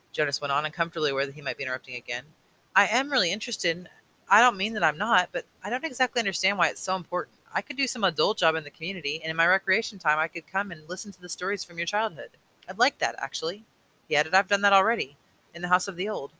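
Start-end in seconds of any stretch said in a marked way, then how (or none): 2.8-13.7 put-on lightly raised boyish voice, earnest; a hint of a boy pleading his case; eager young voice, only lightly put on; young Jonas. 14.3-16.3 put-on lightly raised boyish voice, earnest; a hint of a boy pleading his case; eager young voice, only lightly put on; young Jonas.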